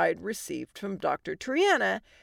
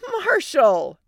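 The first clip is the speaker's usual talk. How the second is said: high, loud, drawn-out name call; yelling; 7 semitones higher, 8 dB louder than usual. Acted. Wife phoning husband over child's wailing, yelling. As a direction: yell it urgently over noise. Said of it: "Allie yelled over the wailing".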